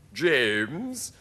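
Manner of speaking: showy creature voice; centipede voice. A narrator's reading. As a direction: play a boastful centipede. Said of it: "the centipede said".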